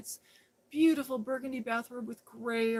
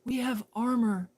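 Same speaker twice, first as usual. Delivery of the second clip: mock royal; 2 semitones higher, 3 dB louder than usual. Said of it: "It is I, Princess Jeannie".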